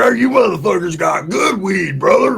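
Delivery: slow, high shouted greeting; hyped greeting. Retold or imitated. Roach hailing the dealers, slow high shout. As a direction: yell it like finding new best friends.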